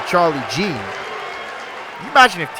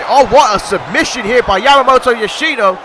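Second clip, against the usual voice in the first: higher and louder announcer call; excited finish call; 4 semitones higher, 3 dB louder than usual. Real, not acted. Commentator announcing the winner to the crowd, rising and loud. Commentator calls the deciding submission.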